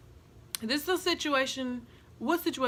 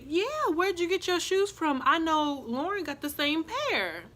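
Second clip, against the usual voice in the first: sly callout; 5 semitones higher than usual. Retold or imitated. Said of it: "my best friend said".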